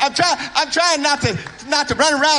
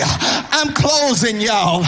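slow drawn-out close; much slower than usual. Real, not acted. Preacher drawing out his close.

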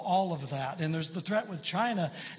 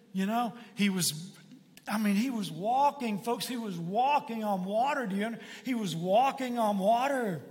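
higher and higher, marveling; growing excitement; 4 semitones higher than usual. Real, not acted. Preacher marveling to the congregation, rising excitement. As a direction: build the wonder line by line.

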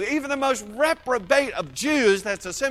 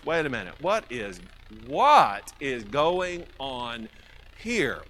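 acted bewilderment; 6 semitones lower, slower than usual. Acting out the puzzled crowd.

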